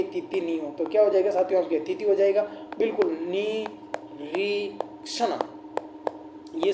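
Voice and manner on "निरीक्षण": निरीक्षण said softly, piece by piece; syllable by syllable. Shown as a demonstration. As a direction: sound out निरीक्षण with gaps between syllables. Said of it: "निरीक्षण शब्द ... शुद्ध है".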